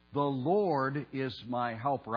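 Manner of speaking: slow, emphatic declaration; emphatic statement. Shown as a demonstration. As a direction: declare it firmly, word by word. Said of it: "It is an emphatic statement".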